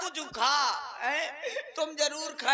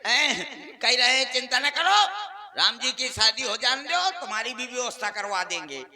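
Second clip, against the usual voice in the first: loud, lower-pitched donor announcement; stage announcer; 3 semitones lower, 7 dB louder than usual. Real, not acted. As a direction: announce the honoured donor to the crowd. Breaks off to announce a donor's gift. (मंच से ज़ोरदार घोषणा)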